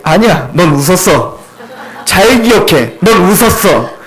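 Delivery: God calmly insisting, a little slow; a light touch of a stern God; firm rebuke. Acted. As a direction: correct her without raising the voice. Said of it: "하나님이랑 지금 사라가 지금 다투고 있어요".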